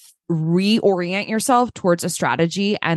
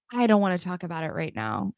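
mock sulky mumble; 2 semitones lower, 7 dB quieter, faster than usual. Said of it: "they were just like".

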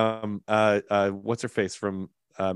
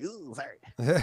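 mock apology; 3 semitones higher, slower than usual. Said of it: "Jessica was like".

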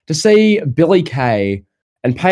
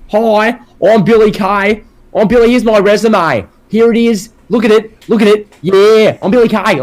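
high-pitched, eager mock self-introduction; Billy Kay; 6 semitones higher, 3 dB louder than usual. Co-host mocking the wrestler's repetitive resume segment, high hammed-up impression. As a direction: imitate a wrestler relentlessly pushing a resume, pitched well up. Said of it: "was just Billy Kay going".

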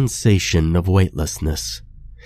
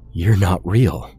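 shaking voice. Acted. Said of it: "his voice shaking".

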